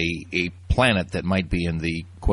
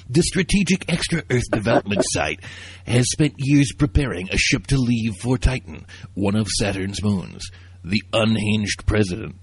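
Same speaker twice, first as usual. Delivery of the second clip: movie trailer voice. Pretend. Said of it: "I'm gonna get my best descriptive movie trailer, uh, voice".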